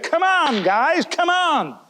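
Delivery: rally the band to pull together; a conductor urging the musicians; conductor rallying the orchestra. Retold or imitated. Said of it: "And he said".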